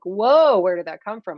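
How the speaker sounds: startled at your own outburst, lightly imitated; a touch of bewildered whoa; mild mock surprise. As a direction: kid caught off guard by their own feelings, mild surprise. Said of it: "you're like".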